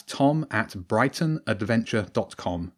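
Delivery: slowly spelling out the address; slow, clear repeat. Shown as a demonstration. The author repeating his email address for young listeners, slow and clear. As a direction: say it again slowly so kids can write it. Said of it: "repeats the address slowly".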